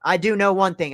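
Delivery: strained, tired voice; losing voice. Real, not acted. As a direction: voice starting to give out. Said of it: "I am starting to lose my voice".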